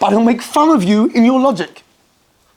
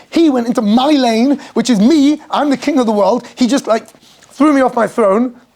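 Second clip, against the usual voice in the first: higher, drawn-out mock indignation; hammed-up wounded self-importance; mock outrage; 3 semitones higher than usual. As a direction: play an affronted king in his car. Acting out an offended driver.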